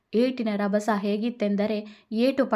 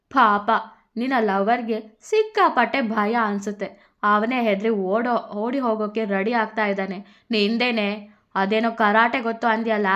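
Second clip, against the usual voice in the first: louder mocking taunt; drunk woman taunting; 4 dB louder than usual. Drunk woman taunts Radha about her scared lover. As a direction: sneer and call her out.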